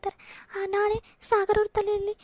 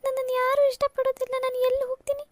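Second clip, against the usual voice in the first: tearful, pitch climbing as she breaks down; weeping out her hurt to her sister; elder sister sobs to Rani about being rejected everywhere; crying; 4 semitones higher than usual. Acted. Sister still crying after insult.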